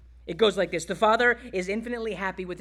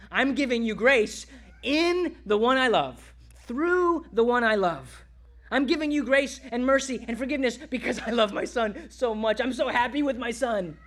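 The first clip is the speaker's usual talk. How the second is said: emphatic, higher, joyful declaration; lightly voiced joyful Father; 4 semitones higher than usual. The Father giving grace out of love for his Son, joyful. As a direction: declare it with a touch of overflowing delight.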